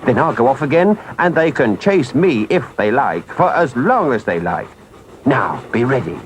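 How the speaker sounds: lightly voiced engine driver giving firm instructions; urgent engine driver. Engine driver briefing Toad on the escape, urgent and firm. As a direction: lay out the plan with contained urgency.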